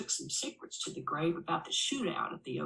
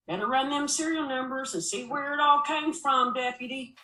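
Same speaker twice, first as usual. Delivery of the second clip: a hint of a raised, bossy sheriff; lightly voiced lawman giving orders; gruff sheriff; 8 semitones higher, 5 dB louder than usual. Sheriff telling his deputy to check the bills, bossy.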